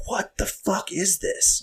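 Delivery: high, slow, startled wife voice; stunned at the shouting family; wife reacting to father and son, high and slow; shocked wife. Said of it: "She was like".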